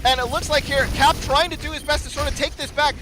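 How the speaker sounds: high-energy fight calling; excited play-by-play. Real, not acted. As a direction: keep the energy high, push through.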